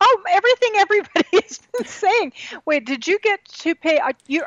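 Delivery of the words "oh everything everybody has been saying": laughing disbelief. Real, not acted. Laughing at the exposed lies.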